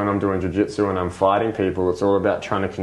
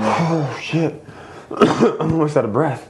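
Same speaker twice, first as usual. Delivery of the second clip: panicked; 7 semitones higher, slower than usual. Retold or imitated. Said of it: "you're like".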